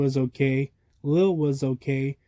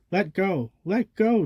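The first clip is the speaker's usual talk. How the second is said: mild yell rising to a high shout; second let go pitched up high; 5 semitones higher, slower than usual. Acted. Chucky tugging with monkeys for his glasses, rising yell. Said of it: "Chucky yelled".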